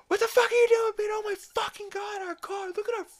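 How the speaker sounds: high-pitched imitation of a screaming wife. Lois to her husband after he crashes the car, screaming. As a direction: screech in a very high voice, acting her fury. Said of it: "she is fucking screaming at him".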